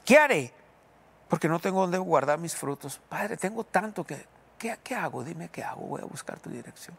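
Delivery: pleading cry to God. Shown as a demonstration. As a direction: call out to the Father, then hush into prayer. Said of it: "Es bueno hacer la pregunta".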